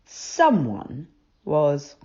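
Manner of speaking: whispered, slow storytelling; hushed narration. A narrator's reading. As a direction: breathe it like a secret.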